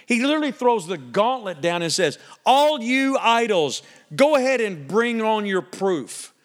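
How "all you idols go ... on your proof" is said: voice of God challenging idols. Retold or imitated. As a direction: throw down the gauntlet like a defiant God.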